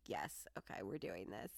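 whispered pep talk to herself; hushed self-encouragement before the door. Retold or imitated. Talking herself into climbing the stairs, whispered.

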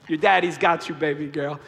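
tender father. Retold or imitated. Father comforts daughter.

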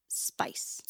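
barely voiced spice; whispered trail-off. Real, not acted.

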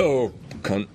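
burped out low; burping the words. Real, not acted. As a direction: swear it through a belch. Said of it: "Sorry, every time I burp, I swear".

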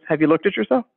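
totally emotionless, even delivery; deadpan psychologist. Retold or imitated. Comedy-skit psychologist answering a fearful patient, deadpan. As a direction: ask it with no emotion at all. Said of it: "deadpan look on her face, totally no emotion".

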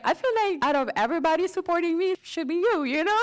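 high, loud wounded protest; hurt protest. Retold or imitated. Daughter protesting to her doubting dad, high and loud. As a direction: plead with your dad, hurt. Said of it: "I was like".

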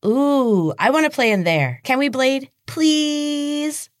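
put-on high, wheedling childish whine; high-pitched whine. Little sister begging brother to enter the maze, whining high. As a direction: beg like a spoiled little girl. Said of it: "Her voice hovered in a high-pitched whine".

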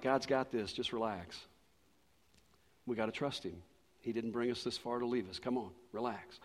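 imitating a calm, steady wife; level-headed reassurance. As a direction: gently settle a panicking husband, softly. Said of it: "she's as level as she can be".

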